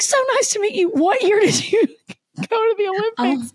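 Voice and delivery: high mock-eager voice, a laugh slipping in; friendly eager greeting. Gymnast greeting a supposed fellow Olympian, high eager voice. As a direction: greet her like a fan, eagerly. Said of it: "And he's like".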